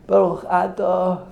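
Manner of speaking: blessing rising steadily from measured to high; building suspense. Acted. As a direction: climb in pitch toward the big moment. Acts out blessing, building to climax.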